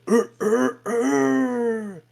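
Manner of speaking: deep rooster crow. Retold or imitated. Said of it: "crowed in a deep fucking voice".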